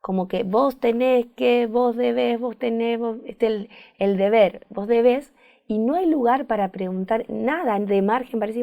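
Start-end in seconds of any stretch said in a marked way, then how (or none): 0.0-5.3 insistent stress on vos and debés, repeated and pressing; a mild commanding inner voice; dictator voice of duty. Shown as a demonstration. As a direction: hammer each "vos" like a demanding inner voice. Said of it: "como nuestro dictador".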